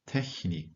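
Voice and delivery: Technik with TECH stressed; first-syllable stress. Shown as a demonstration. Teacher models Technik, stress on the front. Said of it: "테크닉처럼 강세를 앞에 두고 읽으셔야".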